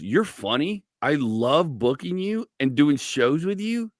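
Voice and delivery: slow, deliberate delivery; blunt retold feedback. Mentor telling a comic about his videos, slow and blunt. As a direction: lay it out slowly, stressing the key words.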